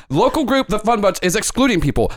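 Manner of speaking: a hint of a pundit spinning a story; Ken De Niro breaking news. Host reporting the exclusion live, mildly hyped anchor. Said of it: "Does your voice always sound like that?".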